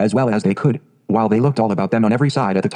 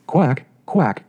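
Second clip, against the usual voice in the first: mother duck calling her ducklings with a quack; 3 semitones higher than usual. Acted. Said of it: "said the mother".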